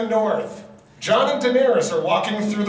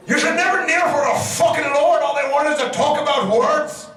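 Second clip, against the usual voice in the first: Tormund voice; 6 semitones higher than usual. Acted. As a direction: boom it out as a brash Tormund. Voicing Tormund.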